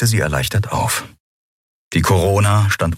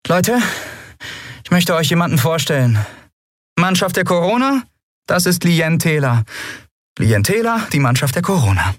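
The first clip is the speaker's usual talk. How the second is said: higher formal introduction; captain announcing; 11 semitones higher than usual. Acted. Endriel introducing Lien to the crew, higher voice. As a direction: present her proudly.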